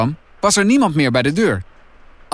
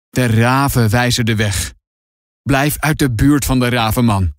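darkly voiced, cryptic warning; muttering old grandpa; 2 semitones lower than usual. A narrator's reading. Grandpa warns Finn off, ominous and muttering. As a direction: intone it as if in his own world. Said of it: "Opa mompelt verder".

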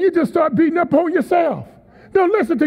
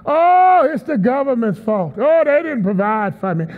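whining blamer. Retold or imitated. Preacher mimicking people who blame others, mock whine. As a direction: play a victim blaming everyone. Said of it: "they love to blame other people".

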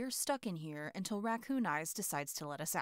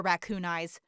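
louder shout of the name Raccoon Eyes; 5 dB louder than usual. Acted. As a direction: bellow Raccoon Eyes at the door. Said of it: "when I was yelling at Raccoon Eyes".

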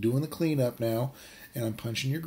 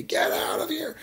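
mock shooing. Men chase off prophet bird.

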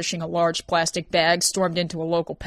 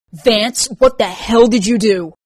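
loud, raised-pitch demand; alarmed, forceful reproach; shocked accusation; 4 semitones higher, 9 dB louder, slower than usual. Acted. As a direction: confront him, appalled. Shocked at seeing a child.

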